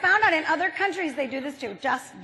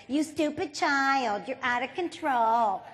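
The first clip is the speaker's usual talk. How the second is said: mommy tone; 3 dB quieter than usual. Retold or imitated. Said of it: "what he has just heard in mommy tone is".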